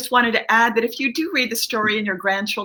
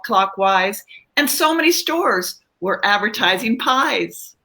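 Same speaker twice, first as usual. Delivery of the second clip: reading her rhyme. Acted. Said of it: "this is when he lands in Australia".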